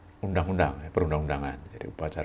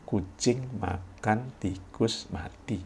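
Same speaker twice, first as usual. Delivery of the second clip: slow read-aloud; 5 semitones higher, much slower than usual. Shown as a demonstration. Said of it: "Coba perhatikan di bawah ini".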